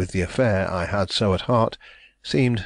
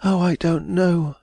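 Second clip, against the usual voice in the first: cried out; 10 semitones higher, slower than usual. A narrator's reading. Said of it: "she cried".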